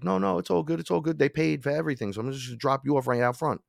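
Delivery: smooth it over like a shifty driver; reassuring driver. Retold or imitated. Cab driver reassuring drunk passenger.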